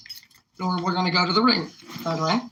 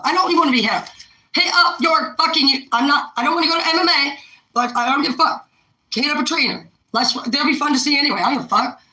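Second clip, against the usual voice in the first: raised, agitated ranting; a fired-up, higher-pitched rant at the chat; heated rant; 5 semitones higher than usual. Real, not acted. Vlogger ranting at her chat, fired up and raised.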